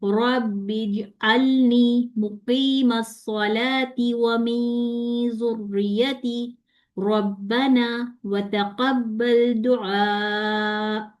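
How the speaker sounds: drawn-out, chanted prayer; slow Quranic recitation. Shown as a demonstration. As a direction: recite slowly and reverently. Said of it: "ये आपने ख्याल करना है".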